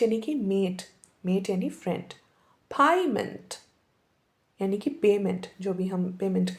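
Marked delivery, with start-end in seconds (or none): 2.8-3.5 Canadian accent. Shown as a demonstration. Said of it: "वो ऐसे बोलते हैं".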